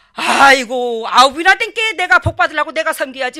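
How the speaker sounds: loud, insistent overruling; hearty protest. Retold or imitated. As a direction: wave the objection away loudly. Acted counter-protest over the meal. (아이고 하며 큰 소리로 말리는 말투)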